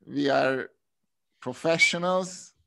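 slow, mock-proud sarcasm; sarcastic. Real, not acted. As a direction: fake self-praise, drawn out. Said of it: "I'm being sarcastic".

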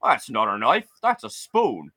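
Australian guy. Retold or imitated. Australian guy teasing Bart about Knifey Spoony, light Australian accent. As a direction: lightly do the Aussie from the Simpsons. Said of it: "some Australian guy".

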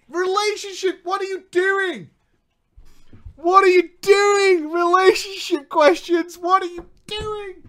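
high, loud shouting at himself; exasperated shout. Real, not acted. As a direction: yell in disbelief at your own move. Yelling at himself in story.

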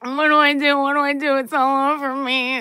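high panicked pleading. Retold or imitated. Retelling her panic to friend.

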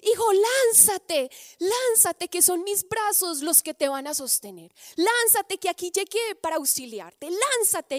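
high, loud call from a father; father in the crowd shouting up to his son, loud and firm; strong fatherly shout. Acted. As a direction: shout up to your son to jump, sure and strong. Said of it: "con una voz fuerte que le gritaba a su hijo".

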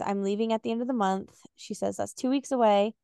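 reading a novel aloud, acting the lines lightly; story narration. Host reads the breakup scene to co-host, in narration. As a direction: read it like an audiobook chapter.

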